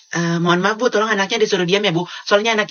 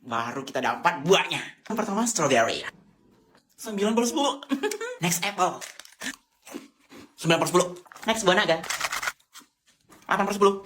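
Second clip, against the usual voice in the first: vlogger review voice; 3 dB quieter than usual. Acted. Fruit review vlog parody.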